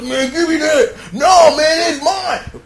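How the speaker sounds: high-pitched tug-of-war squabble; arguing back and forth. Retold or imitated. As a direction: act out a grabbing argument. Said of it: "sitting up here arguing back and forth".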